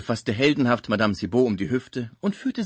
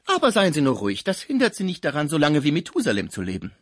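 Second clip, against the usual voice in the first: higher, brisk, hushing scold; bossy concierge; 6 semitones higher, 5 dB louder, faster than usual. Acted. Concierge hushes her exhausted patient, bossy loud reassurance. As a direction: shush the patient with loud assurance.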